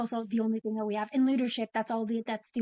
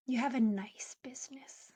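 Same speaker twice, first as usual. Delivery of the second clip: whispered reframe; 6 dB quieter than usual. Retold or imitated. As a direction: whisper "You have a nice business" gently. Reframing client's words gently.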